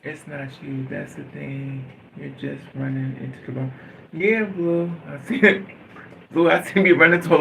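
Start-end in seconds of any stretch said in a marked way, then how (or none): 0.0-3.7 soft aside. Acted.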